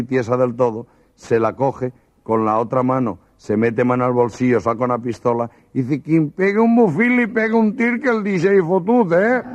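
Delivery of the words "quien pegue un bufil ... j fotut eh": higher, in Valencian, a hammed-up threat; mock threat. Old man with a pistol threatening the card players, hammed-up threat. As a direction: wave the pistol and growl it out.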